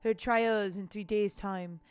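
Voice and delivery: put-on reading a letter in a light French accent; lightly French-accented letter reading. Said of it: "giving, like, a French accent".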